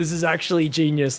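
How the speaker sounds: ordinary delivery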